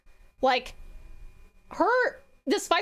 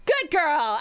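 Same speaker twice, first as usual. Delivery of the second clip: bright, louder pat on the back; cheery praise; 2 semitones higher, 3 dB louder than usual. Real, not acted. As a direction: cheer her on like a proud friend. Praising the chat for bragging.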